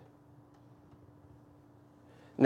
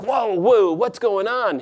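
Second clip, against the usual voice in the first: higher mock panic, a touch overplayed; mock freak-out; 7 semitones higher than usual. Preacher mimicking a panicked Jesus for the congregation, higher mock alarm. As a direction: blurt it like a startled man in a storm. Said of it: "He is not freaking out".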